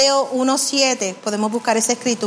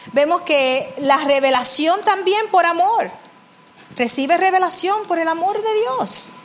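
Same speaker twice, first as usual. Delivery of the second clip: raised-pitch preacher's exhortation; exhorting preaching; 5 semitones higher than usual. Real, not acted. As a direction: urge the congregation in repeated, lifted phrases. (exhortación de predicador en tono elevado)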